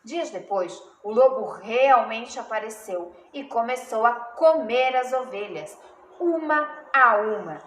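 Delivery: expressive storytelling with weighted key words; children's story narration. A narrator's reading. Teacher reads a fable to pupils, storytelling voice. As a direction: read it to children, drawing out the suspense.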